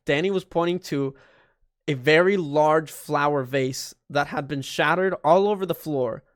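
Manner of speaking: ordinary talk, nothing marked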